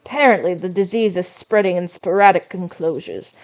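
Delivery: lightly voiced weary old man; tired grandpa voice. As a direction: read it like a grandpa who's over it. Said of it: "this goes along with the whole grandpa thing".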